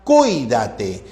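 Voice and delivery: "cuídate" drawn out, ui as one syllable; diphthong kept joined. Shown as a demonstration. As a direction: stretch "cuídate" as cui-da-te. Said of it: "siempre va a ir unida".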